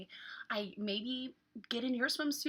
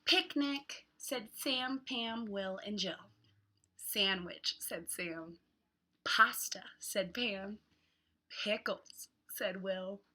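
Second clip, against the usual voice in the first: hot; much slower than usual. Acted. Reads picture book to children.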